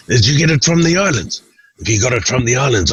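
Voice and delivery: butter up the fisherman about his shirt; lightly hammed-up Tim; Tim flattering.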